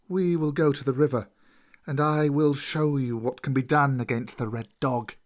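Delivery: measured, lightly voiced wise serpent; old snake Kaa. Old snake offers Mowgli a plan, measured serpent voice. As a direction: speak deliberately as an old snake.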